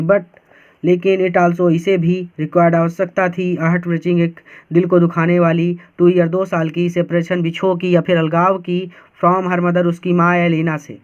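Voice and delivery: all words run together in one go without breaks; the wrong way, rushed together. Shown as a demonstration. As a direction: read it straight through as one block. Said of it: "ऐसे पढ़ेंगे तो गड़बड़ हो जाएगा".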